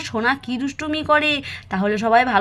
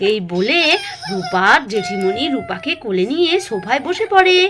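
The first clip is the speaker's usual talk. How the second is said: put-on children's story narration; 3 semitones lower than usual. A narrator's reading. Storyteller tells small children about the fight, sing-song narration. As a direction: draw out each phrase for young listeners.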